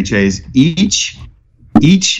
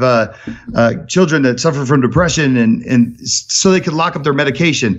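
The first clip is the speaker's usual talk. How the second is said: much higher, eager mad-scientist rush; excited Doc-like greeting; 6 semitones higher than usual. Retold or imitated. Imitating coworker Rich greeting him, high and excited. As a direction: gush like Doc Brown greeting Marty. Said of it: "like the movie Back to the Future, and I was Marty and he was Doc".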